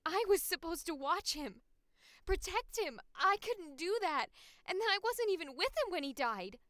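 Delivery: high, loud self-reproach; anguished outburst. Acted. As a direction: cry out the guilt at full force. Louder take of grieving lines.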